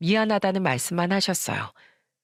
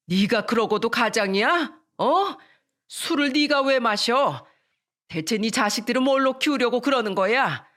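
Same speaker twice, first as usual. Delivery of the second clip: scolding mother; 5 semitones higher than usual. Retold or imitated.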